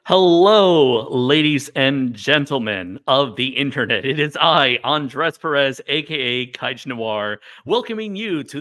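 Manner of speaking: loud announcer-style welcome; showman greeting. Acted. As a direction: boom it out like a show host. Opening the live stream grandly.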